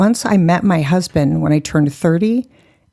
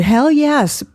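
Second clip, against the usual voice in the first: "Hell yes" higher, punched on "hell"; eager, higher "Hell yes"; emphatic "Hell yes"; 9 semitones higher than usual. Shown as a demonstration. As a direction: shout it with gusto. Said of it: "Can you say hell on this show?".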